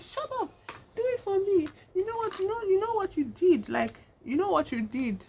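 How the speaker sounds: very high-pitched, hammed-up scolding; acted agitated demand. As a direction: imitate a desperate wife ordering her husband. Acted dying wife's demand in quarrel.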